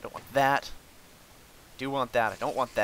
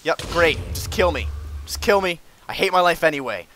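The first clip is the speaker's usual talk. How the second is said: raised-pitch frustrated griping; exasperated rant; 4 semitones higher than usual. Real, not acted. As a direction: rant at the game as it beats you. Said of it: "Screamed a little bit".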